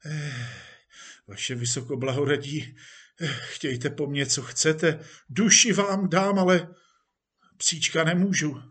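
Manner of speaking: hesitate, then plead earnestly with a superior; dismayed pleading. Acted. Actor refuses chief his dog, pleading in dismay. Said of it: "Počenovský zbledl".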